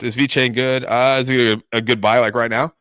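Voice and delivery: talking through the hiccups; hiccuping between words. Real, not acted. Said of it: "Oh, I got the hiccups".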